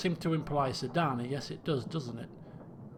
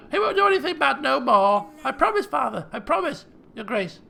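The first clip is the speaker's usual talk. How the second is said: higher, earnest promise; pleading daughter; 9 semitones higher, 9 dB louder than usual. Acted. Daughter promising her father the bear will behave, pleading. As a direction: promise eagerly in a young voice.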